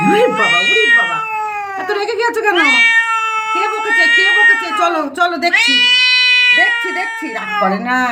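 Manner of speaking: high-pitched fussing over an angry pet; fussing pet talk. Real, not acted. Owner asking an angry cat who scolded it, fussing. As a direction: placate it in a high cooing voice.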